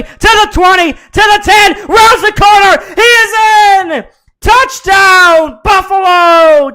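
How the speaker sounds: building to a screaming play-by-play; rising into a full shout as he scores; touchdown call. Acted.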